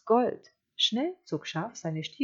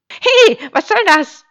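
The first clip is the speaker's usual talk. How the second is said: high, loud sheep protest; indignant cry; 14 semitones higher, 19 dB louder than usual. A narrator's reading. Sheep protesting as wolf lands beside it, indignant cry. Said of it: "rief Schaf".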